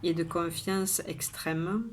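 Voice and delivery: measured poem reading with pauses between lines; poem recitation. Acted. Poet shares today's poem with viewers, measured recitation. Reads the poem a third time.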